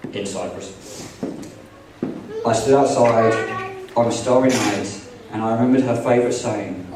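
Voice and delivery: wedding toast speech. Acted. Groom reads wedding speech.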